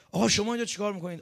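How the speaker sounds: high, fast startled question; flustered surprise. Retold or imitated. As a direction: imitate a student stunned by the visitor. Student finds his teacher at door.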